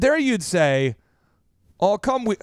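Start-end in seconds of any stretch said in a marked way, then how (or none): 1.8-2.4 mildly frustrated Minnesotan, dropping lower; lightly exasperated mock Minnesotan; Minnesotan accent. Minnesotan frustrated with Bjorn, mild mock accent. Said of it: "frustrated with somebody in Minnesota".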